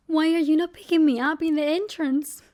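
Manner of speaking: mock angry demand. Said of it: "I could have been angry".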